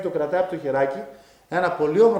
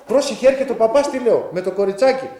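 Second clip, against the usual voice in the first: urgent warning; 4 semitones higher, 3 dB louder than usual. Retold or imitated. Warning nurse of approaching vision.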